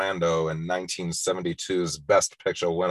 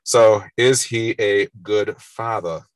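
half-hearted mock mafia don; bad Brando impression; 5 dB louder, slower than usual. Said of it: "that's probably getting annoying, so I'm gonna stop that".

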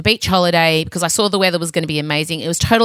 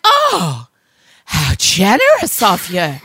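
sarcastic gratitude; slower than usual. Retold or imitated. Mother to daughter who finally offers to help, sarcastic. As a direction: lay the fake thanks on thick.

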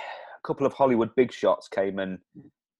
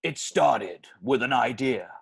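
movie trailer voice; 2 semitones higher than usual. Pretend. Plays his own movie trailer aloud.

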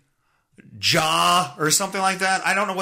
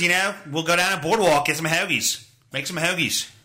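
put-on Philly accent. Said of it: "Fucking dumbass accent".

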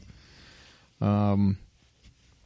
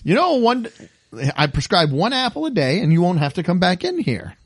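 lightly voiced homely aunt, pitched up; a hint of Aunt Bee playing doctor; 4 semitones higher than usual. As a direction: prescribe like a folksy old aunt. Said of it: "looks like Aunt Bee with an apron on".

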